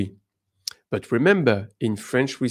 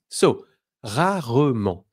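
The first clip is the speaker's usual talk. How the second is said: ordinary delivery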